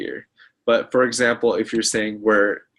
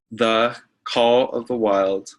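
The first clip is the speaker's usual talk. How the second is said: the Call of the Wild, each word spaced out slowly; slow, deliberate title; slower than usual. Shown as a demonstration. Teacher pointing students to a book title, slow and deliberate. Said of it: "just like what you see here".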